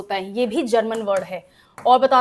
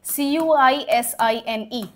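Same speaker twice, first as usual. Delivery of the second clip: slow spelling; much slower than usual. Shown as a demonstration. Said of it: "और word बताती हूँ".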